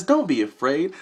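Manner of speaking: mild, even reassurance; reassuring orb voice. Retold or imitated. Orb telling him not to fear, mild reassurance. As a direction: say it simply, to soothe. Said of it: "She says".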